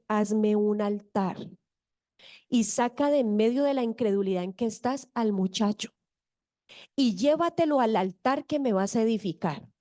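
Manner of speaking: más grave y lento, solemne; voz de Dios. Retold or imitated. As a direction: habla como Dios dando una orden, despacio. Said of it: "Dios le habla y le dice". (voz de Dios, grave y pausada)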